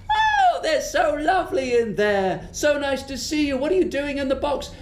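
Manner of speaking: squealing high then quick delight; delighted witch. Acted. Witch greeting little creatures, high and delighted. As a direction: gush with childlike joy.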